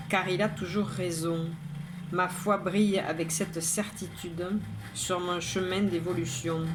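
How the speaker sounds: measured, even poem reading with pauses between lines; poem recitation. Acted. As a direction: recite it line by line, evenly. Recites own poem aloud.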